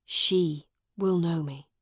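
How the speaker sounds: breathy, half-whispered assurance; hushed, intimate certainty; quiet insistence. A narrator's reading. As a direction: say it low and hopefully. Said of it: "Miles asked quietly".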